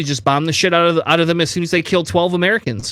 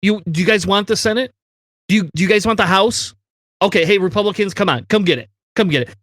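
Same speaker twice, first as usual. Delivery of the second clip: mock careless Biden; 3 semitones higher than usual. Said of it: "a president that's gonna go".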